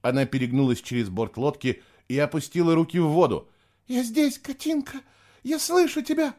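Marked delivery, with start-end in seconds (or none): 3.9-6.3 very high, eager call. A narrator's reading. Girl answering her sister in the river, eager. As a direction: call out to someone you've lost.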